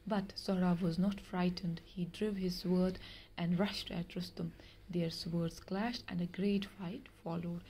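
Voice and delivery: slow, measured reading of a tale; story reading. Acted. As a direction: read each word out slowly for the class. Teacher reads story aloud. (धीमी आवाज़ में कहानी पढ़ना)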